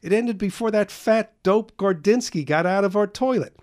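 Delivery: high, loud, giddy storytelling; gleeful retelling. Acted. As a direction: gloat over the neighbour's mishap. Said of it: "said Carl".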